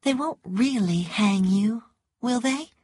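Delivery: mild anxious pleading, lifting at the end; worried. A narrator's reading. Scarlett asks Rhett if they'll hang him, worried.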